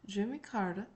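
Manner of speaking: "Carter" with a softened first r and a d-like t; Southern pronunciation of Carter. Shown as a demonstration. Channeled president shows the surname, "Carter" said as "Cahr-duh". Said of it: "that's how I say my last name".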